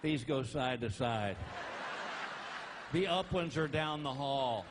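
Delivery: slow, dry mock explanation; slow deadpan sarcasm. Comedian to man at elevator, slow deadpan sarcasm. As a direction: explain it slowly as if to a child.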